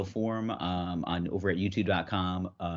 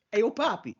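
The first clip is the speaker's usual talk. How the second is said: Elmo voice; 4 dB louder than usual. Acted. Joining the Elmo bit.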